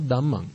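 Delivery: "Dhammang" with a plain d; mispronounced "Dhammang". Shown as a demonstration. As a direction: say "Dhammang" with no breath after d.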